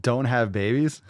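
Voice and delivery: slow disbelieving repeat of Don't have babies; incredulous. Real, not acted. Repeating the TikToker's line in disbelief. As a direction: echo it back in disbelief. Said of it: "what is that saying".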